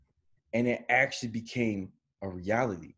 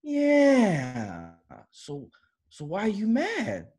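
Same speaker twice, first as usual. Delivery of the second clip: much higher, stretched-out yeah then a high question; lazy high stoner voice; stoned friend voice; 10 semitones higher, much slower than usual. Retold or imitated. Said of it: "He's like".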